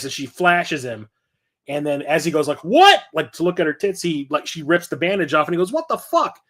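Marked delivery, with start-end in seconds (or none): 2.6-3.0 loud, high-pitched mock shock; shocked outburst. Acting out movie character's shocked reaction. 5.7-6.4 high-pitched mock astonishment; shocked disbelief. Acting out character's shock in scene.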